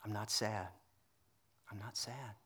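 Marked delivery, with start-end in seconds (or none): 1.7-2.4 softer retelling of the wife's words; much softer repeat. Retold or imitated. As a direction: drop right down on the repeat, barely voiced. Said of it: "she goes".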